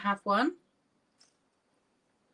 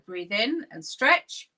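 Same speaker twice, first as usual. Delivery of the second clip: slow instruction; 5 dB louder, slower than usual. Shown as a demonstration. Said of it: "I'm gonna do that three times".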